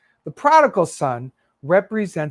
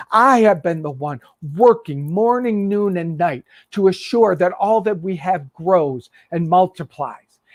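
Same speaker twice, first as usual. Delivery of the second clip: angry son. Acted. Older son protesting to his father, building outrage.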